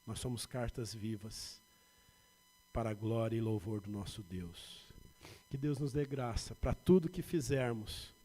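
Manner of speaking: normal talking voice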